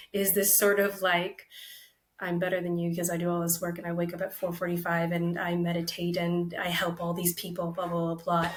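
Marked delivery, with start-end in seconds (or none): 2.2-8.5 rattled-off holier-than-you boasting; mock self-important. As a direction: reel it off quickly, parodying your own smugness. Mocking her own superior inner voice.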